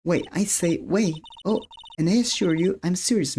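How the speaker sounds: put-on high, insistent girlish witness voice; April May. Witness assures the lawyer, high-pitched insistence. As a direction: object primly in a high girl's voice.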